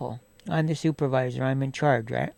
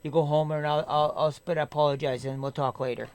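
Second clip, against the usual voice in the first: softer, easygoing reassurance; understanding, apologetic; 4 dB quieter than usual. Pretend. How he'd answer a sick friend, calm apology. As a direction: talk a friend down gently.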